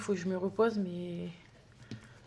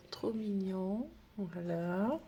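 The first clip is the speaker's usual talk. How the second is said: whisper; 5 dB quieter, much slower than usual. Real, not acted. Cooing over the little bows.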